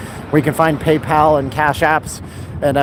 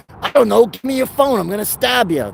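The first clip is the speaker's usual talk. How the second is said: thirties New York tough; 6 semitones higher than usual. Acted. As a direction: threaten like a hammed-up thirties New York mugger. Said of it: "talking like a guy from the New York in the thirties".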